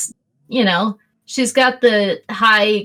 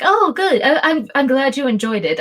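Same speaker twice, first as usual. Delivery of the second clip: too pleased; 4 semitones higher than usual. Acted. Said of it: "is actually too pleased".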